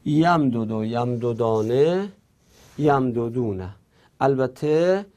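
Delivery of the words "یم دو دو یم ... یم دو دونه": یم دو دو، یم دو دانه، یم دو دونه recited as a list; original unmerged forms. Shown as a demonstration. Teacher reciting the original forms, in a connected list. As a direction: lift the end of یم دو دانه, drop on یم دو دونه. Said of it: "اصلش اینطوری بوده".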